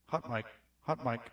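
soft, low-level test of the mic; quiet mic check. Shown as a demonstration. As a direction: murmur the check close and quiet. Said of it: "mic check, testing levels".

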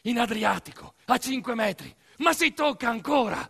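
a fretting mother shouting from the shore; anxious mother. Retold or imitated. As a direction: call after the kids not to swim out. Mother warns about sea.

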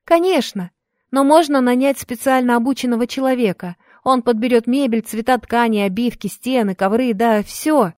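put-on a bright young helper speaking; young woman voice. Maria voiced in story.

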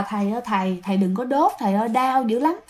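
a possessed man begging through the pain; pained pleading. Retold or imitated. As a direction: beg the monk to stop, in pain. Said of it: "Dượng giống như là rất là đau".

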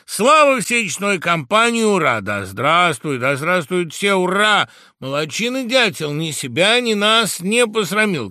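high, loud rowdy cheering; birds cheering. Acted. The birds cheer the woodpecker loudly. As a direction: roar the praise like a feast crowd. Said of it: "кричали птицы".

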